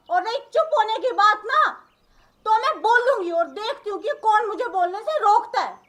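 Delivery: usual speaking voice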